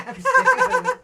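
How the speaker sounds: cracking up mid-sentence; laughing. Real, not acted. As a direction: laugh through the words. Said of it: "Can't say that with a straight face".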